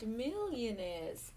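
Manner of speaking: slow, stretched "millionaires"; drawn-out marvelling. Real, not acted. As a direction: linger on the word "millionaires".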